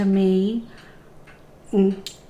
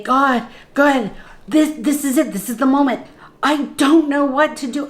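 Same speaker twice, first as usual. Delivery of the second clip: retold panic; 4 semitones higher than usual. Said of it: "sheer panic came in".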